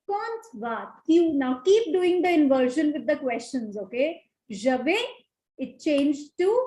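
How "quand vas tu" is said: slow model question. Shown as a demonstration. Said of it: "what question do we make".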